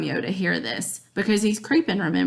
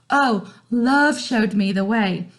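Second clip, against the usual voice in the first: dreamy Romeo; slower than usual. Retold or imitated. Romeo quoted.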